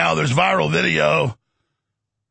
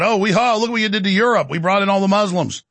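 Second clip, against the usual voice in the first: mock bragging; 5 semitones higher than usual. Mocking the Israel lobby bragging about Europe, smug gloat. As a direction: ham up a gloating boast.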